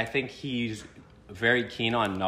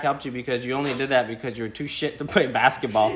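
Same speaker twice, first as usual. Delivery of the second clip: slightly raised, emphatic mock scolding; Bryn impression; 3 semitones higher, 4 dB louder than usual. Reading the insults aimed at himself, lightly imitated rant. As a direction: lightly mimic someone laying into you. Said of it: "In my best, uh, Bryn impression".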